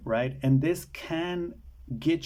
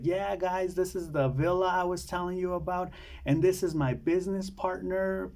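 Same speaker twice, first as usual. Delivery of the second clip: higher-pitched imitation of a movie con woman; put-on hostess voice, higher than usual; acted breezy introduction; 6 semitones higher than usual. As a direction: play her introducing the villa to guests, pitched up. Voices returning scammer introducing partner.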